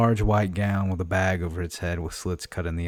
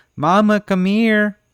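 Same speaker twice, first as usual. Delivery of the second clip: put-on exasperated little girl voice calling out, higher, louder; 14 semitones higher, 9 dB louder than usual. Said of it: "the girl looks exasperated and says".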